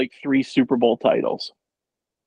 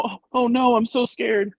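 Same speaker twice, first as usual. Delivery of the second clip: mock scared; 8 semitones higher than usual. Fan mocking Shanahan's team against everyone else, mock scared. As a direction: imitate someone feigning fright, pitched way up. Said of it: "you just kinda go".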